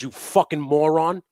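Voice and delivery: angry yell. Retold or imitated. Yelling at the driver who nearly backed into him. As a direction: bark it at him. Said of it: "I said".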